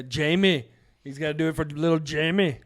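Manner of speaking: lightly voiced action-star impersonation, badly done; a hint of the action hero, a bit punched up; Arnold. Host quotes a Christmas movie dad, half-baked star impersonation. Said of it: "That's a horrible Arnold impersonation".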